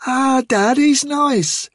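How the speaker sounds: put-on a girl pleading with her father; pleading child. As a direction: beg dad to let her.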